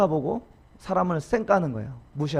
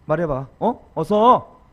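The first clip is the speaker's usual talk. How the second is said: 다그치는 추궁. Retold or imitated. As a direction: push for an answer, rising at the end. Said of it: "이렇게 추궁하는 거". (다그치듯 몰아붙이는 추궁)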